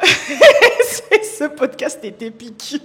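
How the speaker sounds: laughing loudly, very slow. Real, not acted. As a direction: laugh through the words. Laughing after panic.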